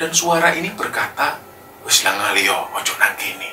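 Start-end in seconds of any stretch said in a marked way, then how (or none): 1.8-3.5 deep, heavy, weighty voice with swooping pitch. Telling a story, voicing the mysterious voice Pandu suddenly heard, heavy deep voice. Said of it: "Suaranya itu berat seperti itu".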